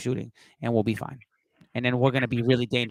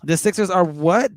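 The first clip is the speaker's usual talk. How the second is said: mock surprise; 5 semitones higher, 5 dB louder than usual. Real, not acted. Mock disbelief at insult.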